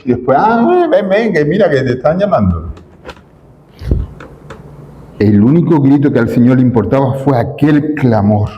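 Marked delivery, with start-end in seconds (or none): 0.4-2.7 higher, sugary coaxing that fades; mock sweet welcome. Hypocrites suddenly welcome someone, mock sweetness. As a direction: play the two-faced friend. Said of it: "de los que digamos".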